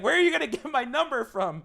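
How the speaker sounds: loud, high-pitched giddy demand; astonished outburst. Retold or imitated. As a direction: burst out in playful disbelief. Excited reaction to texting promise.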